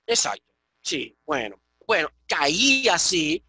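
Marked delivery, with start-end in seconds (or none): 2.3-3.0 caía slowly as ka-Í-a; hiatus. Shown as a demonstration. Teacher confirming a student's example, slow ka-Í-a. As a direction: stretch the stressed Í in caía. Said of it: "para decir caía, correcto".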